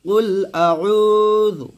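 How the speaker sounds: কুল with a back throat ক, not কাফ; কুল with the heavy qaf; deep qaf. Shown as a demonstration. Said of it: "এটা কফ, কুল".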